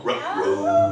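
low cartoon-dog uh-oh; Scooby-Doo. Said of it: "Where's that Scooby-Doo Astro guy going".

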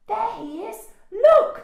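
put-on high, loud child's yell. A narrator's reading. Daisy spots the rhino, yelling. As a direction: point it out urgently, peaking at the end. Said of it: "yelled Daisy".

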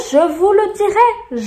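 high, loud insistence; loud, high-pitched warning; emphatic promise. Real, not acted. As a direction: promise it forcefully, pitched right up. Emphatic promise, then repeated slowly.

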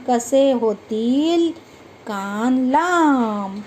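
put-on slow, sing-song poem reading for children; poem recitation. Teacher reciting a funny poem to children, slow sing-song. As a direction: recite each line slowly to the class.

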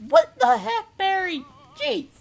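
high-pitched squawk of indignation; exasperated outburst. Real, not acted. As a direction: complain sharply, voice shooting up. Complaining at game character.

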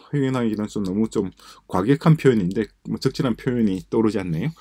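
normal talking voice

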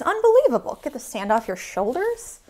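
playful outrage at the sand; mock exasperation. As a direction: throw up your hands at the sand.

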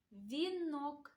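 "вінок" with the N drawn out; careful, stretched "вінок"; sound-highlighting pronunciation. Shown as a demonstration. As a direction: linger on the н in "вінок". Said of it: "та відстежимо".

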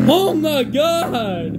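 high, drawn-out cry of amazement; amazed exclamation. Real, not acted. Speaker reacting to the bass, in amazed high exclamation. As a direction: stretch it out high, blown away.

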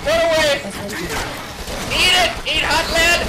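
battle shout. Pretend. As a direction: holler it as you open fire. Battle cries while retreating and shooting.

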